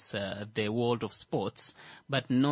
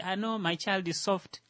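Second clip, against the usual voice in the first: mocking parent voice; 8 semitones higher than usual. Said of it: "parents when they say".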